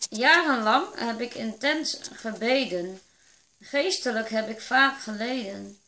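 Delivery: measured poem reading with pauses after each line; poem recital. Real, not acted. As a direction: recite your own verse line by line, evenly paced.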